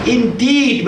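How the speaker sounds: "indeed" set apart with a firm falling tune; emphatic "Indeed". Shown as a demonstration. Preacher explaining what inna adds, saying "indeed" with emphasis. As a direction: stress "indeed" as a word on its own. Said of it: "with emphasis".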